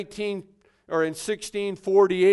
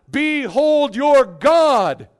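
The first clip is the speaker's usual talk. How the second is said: slow proclamation; 6 semitones higher, 9 dB louder, much slower than usual. Acted. Preacher proclaims to the people.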